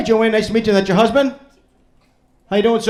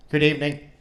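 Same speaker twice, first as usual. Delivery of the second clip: band-member cab driver; 3 dB quieter than usual. Pretend. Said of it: "my impression of the Bee Gees as cab drivers".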